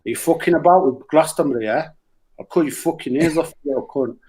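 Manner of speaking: a hint of a vicious threat; lightly menacing, sneering quote; Emily Eavis. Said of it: "she does sound like that".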